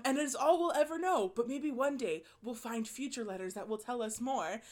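mock-British documentary narration; a light British radio narrator impression; British accent. Narrator ending a chapter on the letters, British accent. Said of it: "in, like, a very British accent".

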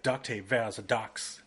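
a lightly put-on German accent, barely moved from own voice; mock an old German man telling a dad joke in a half-hearted German accent; bad German accent. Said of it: "that was a bad German accent".

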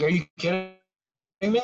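high disbelieving are you kidding me; incredulous. Retold or imitated. Student reacting to teacher's tangent, high incredulous disbelief. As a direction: scoff in total disbelief. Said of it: "It's like".

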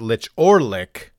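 "lich" ending in ch, "lick" in hard k; two pronunciations. Shown as a demonstration. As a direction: contrast "lich or lick", leaning on "or". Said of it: "you can pronounce it".

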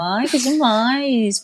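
a lightly put-on velvety purr. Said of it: "Aí entra uma pessoa falando assim".

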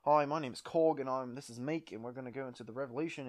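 New Zealand accent impression; lightly put-on New Zealand accent; Korg. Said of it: "the prominent New Zealand actor. He's like".

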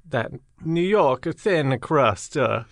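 put-on slow, drawn-out Brooklyn accent. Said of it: "Brooklyn impression".

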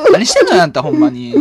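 nagging Osaka mum voice; loud nosy Osaka auntie. Acted. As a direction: scold him like a pushy Kansai mother. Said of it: "なんでババアのままなの？".

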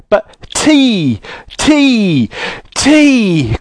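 high, insistent calling out; exasperated cry. Acted. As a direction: cry each word out high, as if to someone hard of hearing. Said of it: "cried Joe".

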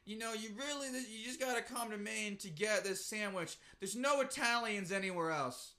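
mild mock earnest interviewee; interviewed sandwich fan. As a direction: imitate an emphatic restaurant regular. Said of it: "this person at the end of this thing".

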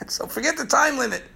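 chuckling through the line; laughing. Real, not acted. Preacher laughing about the half-hour limit, light chuckle. Laughing at running over time.

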